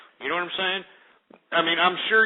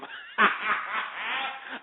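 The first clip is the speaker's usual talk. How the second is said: real laugh; 5 semitones higher, 5 dB quieter than usual. Real, not acted. Laughing at own mockery.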